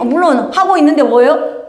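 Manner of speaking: ordinary talk, nothing marked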